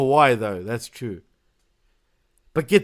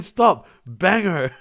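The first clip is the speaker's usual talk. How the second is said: drawn-out commentator catchphrase; Corey Graves; 2 semitones higher, much slower than usual. Retold or imitated. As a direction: mimic a commentator stuck on one word, stretching it. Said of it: "Corey Graves on the game starts going".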